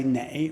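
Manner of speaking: "nei" said the northern Beijing way. Shown as a demonstration. Teacher shows how Beijing speakers say "nei". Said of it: "in Beijing, they say".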